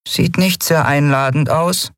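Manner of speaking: doubtful little remark; lightly voiced uneasy sidekick; Nelen, wary. A narrator's reading.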